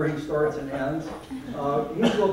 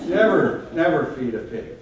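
emphatic warning; 2 semitones higher, 6 dB louder than usual. Real, not acted. Warning after a mishap.

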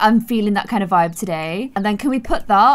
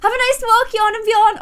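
sarcastic; 12 semitones higher, 4 dB louder than usual. Real, not acted. Sarcastic farewell to visitors.

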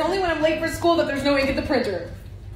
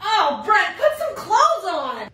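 mock scandalized; 5 semitones higher, slower than usual. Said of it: "different reactions I'd have if I walked in".

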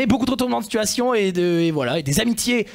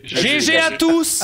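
cheerful announcement; 9 semitones higher, 3 dB louder, much slower than usual. Real, not acted. Congratulates everyone.

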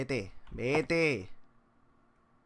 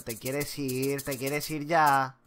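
slow, drawn-out begging, rising louder; desperate pleading; 2 semitones higher, 6 dB louder, much slower than usual. Real, not acted. Player begging the monster to go away, slow desperate plea. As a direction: beg it to leave.

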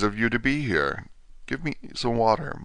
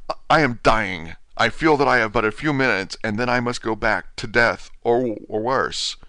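desperate dying patient pressing the doctor, raised and urgent; hurried, energetic; 3 semitones higher than usual. Acted. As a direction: rush it out, a dying man racing the clock. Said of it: "he said, hurriedly, and with more energy".

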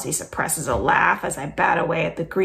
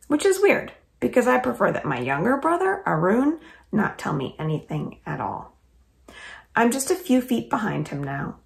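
lively read-aloud storytelling voice; story narration. A narrator's reading. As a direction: read it like a children's chapter book. Reads chapter aloud.

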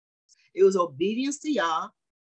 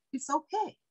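imitating young lady; 11 semitones higher, 3 dB quieter than usual. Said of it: "She said".

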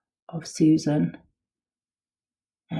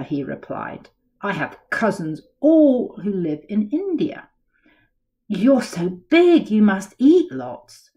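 lively picture-book read-aloud; storybook voice for kids; reading to children. A narrator's reading. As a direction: tell it like a bedtime story to little ones.

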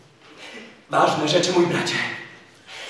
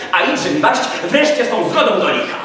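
angry outburst; 5 semitones higher, 8 dB louder than usual. Acted. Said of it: "Przerwał sędzia, tupnąwszy nogą".

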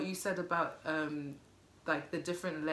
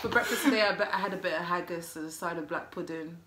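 put-on British accent. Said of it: "About Buckingham Palace and bullshit".

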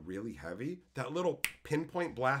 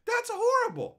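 much higher, loud mock old lady; a hint of a shocked old lady; lightly voiced old lady tutting; old lady scolding; 8 dB louder than usual. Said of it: "then she's like".

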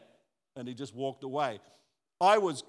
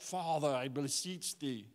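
phony piety; 4 dB quieter, slower than usual. Shown as a demonstration. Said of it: "that phony".

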